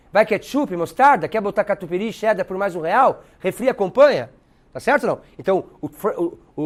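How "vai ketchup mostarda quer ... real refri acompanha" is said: lightly voiced street vendor reeling off toppings; hot-dog vendor. Hot-dog guy taking a customer's order, lightly voiced vendor. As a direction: offer the extras as upbeat sales questions. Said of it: "Aí tem o tiozão do dog".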